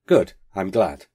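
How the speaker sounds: curt sudden snap; snapped. Acted. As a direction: bite off the words briskly. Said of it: "and then he snapped".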